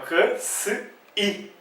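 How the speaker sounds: K, S, I as bare separate sounds; isolated phonemes. Shown as a demonstration. Teacher sounding out the phonemes for learners, isolated phonemes. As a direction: sound out K, then a hissed S, then I. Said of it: "Quais são os fonemas que aparecem aqui".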